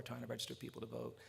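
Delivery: low, hushed line ending; imitated elder's subdued testimony; solemn recollection. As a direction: let it sink low and soft. Old man recounting his scars.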